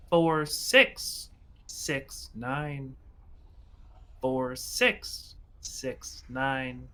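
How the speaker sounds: slow, fading machine repeat; robotic voice. Acted. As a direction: let the numbers drag out like a broken recording. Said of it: "you hear a robotic voice say".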